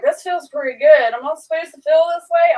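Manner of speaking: wide-eyed wonder as the shot kicks in; giddy surprise. Retold or imitated. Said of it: "He's like".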